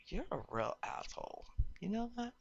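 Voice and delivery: high, re-enacted indignant rant; retold angry outburst. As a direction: tell him off in high-pitched, acted outrage. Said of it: "I was so angry".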